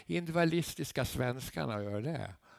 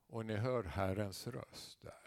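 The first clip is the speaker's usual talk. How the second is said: soft and slow, drawing them in; quiet, slow preaching; 3 semitones lower, 8 dB quieter than usual. Acted. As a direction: say it gently. Quiet first statement. (tyst och långsamt)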